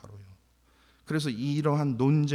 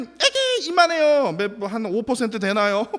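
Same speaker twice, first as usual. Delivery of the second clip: belittling; 8 semitones higher, 7 dB louder than usual. Acted. Belittling the tiny opposing group.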